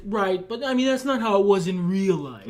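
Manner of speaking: lightly nitpicky know-it-all correction; a hint of smug pedantry; pedantic asshole voice. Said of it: "putting on the pedantic asshole voice for that".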